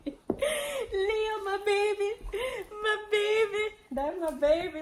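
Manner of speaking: sing-song pet talk, high and sweet. Real, not acted. Doting on her dog Leo.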